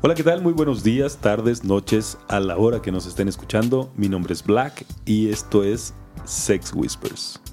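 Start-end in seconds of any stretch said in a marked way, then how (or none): 1.6-7.4 sensual voice. Acted. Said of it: "la voz sensual".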